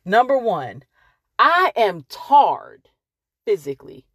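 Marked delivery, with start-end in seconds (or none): 1.4-2.9 "tarred" drawn out slowly as one syllable "tard", country style. Shown as a demonstration. Telling her audience she's worn out, slow country "tarred". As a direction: say "I am tarred" slow, with "tarred" rhyming with "card". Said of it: "like they say in the country".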